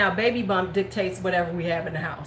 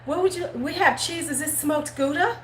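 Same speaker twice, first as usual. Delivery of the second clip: put-on little kid voice; 8 semitones higher than usual. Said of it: "and be like".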